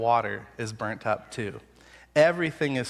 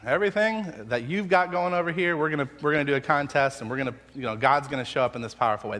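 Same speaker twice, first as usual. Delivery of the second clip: bold announcement; faster than usual. Pretend. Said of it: "and say".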